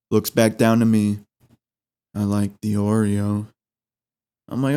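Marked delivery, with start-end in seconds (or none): 2.1-3.5 depressed cashier. Retold or imitated. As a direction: drag it out like you hate the job. Cashier voiced in story.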